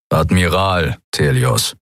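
grind the title out between your teeth; a hint of a gruff officer correcting a prisoner; grinding correction. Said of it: "knirschte der dunkle Mann".

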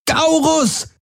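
high desperate scream of a name. A narrator's reading. Kirai screaming at the creature in horror, shrill scream. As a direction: shriek his name in panic. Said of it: "schrie Kirai".

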